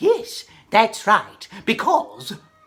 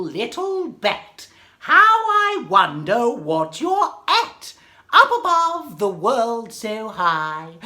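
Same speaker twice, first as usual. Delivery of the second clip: poem recitation. Acted.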